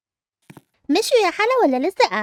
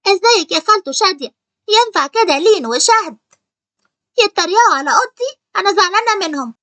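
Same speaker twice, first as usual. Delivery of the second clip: raised, whiny tattling to her aunt; loud sulky complaint; 3 dB louder than usual. Acted. Upset girl complaining to her aunt about her cousins, loud and whiny. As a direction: complain loudly, hurt and pouting.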